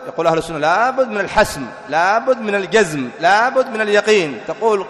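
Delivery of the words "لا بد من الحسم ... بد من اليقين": emphatic, raised refrain with each phrase driven home; firm insistence. Acted. Sunni scholars answer those who hesitate, firm insistence. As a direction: insist on it, point by point.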